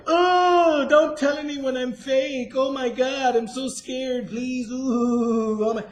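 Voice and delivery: high, loud, drawn-out mock wail; mock panic. Mocking fakers who beg not to be exposed, mock panic.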